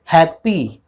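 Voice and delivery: "हैप्पी" split into two beats, है and पी; syllable by syllable. Shown as a demonstration. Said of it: "उस word को बोलिए". ("हैप्पी" को दो हिस्सों में तोड़कर बोलें)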